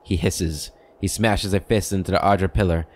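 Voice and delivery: measured game-book narration; story narration. A narrator's reading. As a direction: read out the scene like a storyteller. Reads game's scene description.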